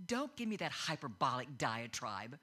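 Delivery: big words delivered low and firm; angry low voice. Retold or imitated. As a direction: imitate an angry mother going low. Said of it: "your voice gets very low".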